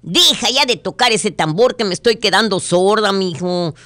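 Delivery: fed-up mom yelling over a drum; angry shout. Acted. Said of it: "le grita enojada".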